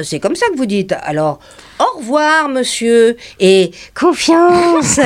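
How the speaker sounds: mock the manager sweetly; a light, cheeky send-off; mocking customer. Cheeky woman mocks the manager.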